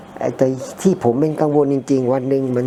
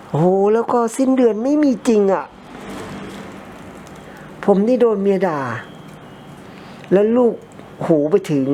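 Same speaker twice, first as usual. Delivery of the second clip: exasperated outburst; 8 semitones higher than usual. Real, not acted. Complaining friend never repaid.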